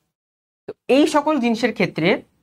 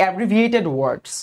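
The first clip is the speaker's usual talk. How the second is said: slow term; 4 semitones lower, much slower than usual. Shown as a demonstration. Teacher spells out the term.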